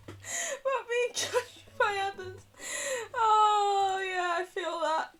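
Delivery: high, wailing fake sob; mock crying. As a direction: pretend to sob in sympathy. Overdramatic sympathetic cry voice.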